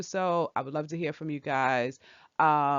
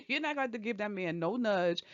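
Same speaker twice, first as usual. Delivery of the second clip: laughing through the words; amused scoff; 4 semitones higher, 5 dB quieter than usual. Real, not acted. Vlogger scoffs at the plan to nudge him, laughing. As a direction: dismiss it through a real laugh.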